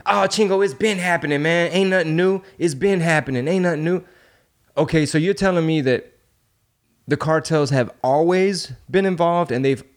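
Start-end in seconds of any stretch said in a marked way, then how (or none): 0.1-4.0 higher-pitched mock dismissive locals; dismissive naysayers. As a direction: shrug it off like old news, pitched up. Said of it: "So when people say".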